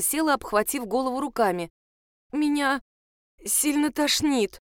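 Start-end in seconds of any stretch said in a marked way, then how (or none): 2.3-4.6 slow, weak hoarse voice; hoarse and sick. A narrator's reading. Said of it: "проговорила она хрипловатым голосом". (хрипловатый слабый голос)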